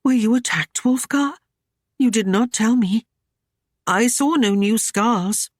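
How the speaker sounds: put-on high, anxious young woman; worried, rushing concern; anxious worry. A narrator's reading. Ashlyn fretting to Wulfgar, high and anxious. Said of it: "in anxious worry".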